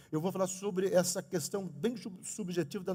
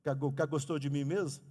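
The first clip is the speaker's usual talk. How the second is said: mock stutter; 3 semitones lower than usual. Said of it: "como é que gago termina o namoro".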